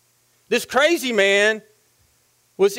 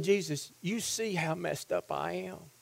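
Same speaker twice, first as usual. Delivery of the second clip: very soft, lower acted plea; hushed confession; 5 semitones lower, 12 dB quieter than usual. Possessed man confiding in Jesus, hushed confession. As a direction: drop right down, as if ashamed.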